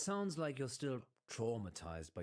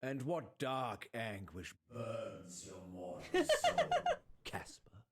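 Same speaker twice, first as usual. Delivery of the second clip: grand priest voice; 4 dB louder than usual. Acted. Mock priestly grand question.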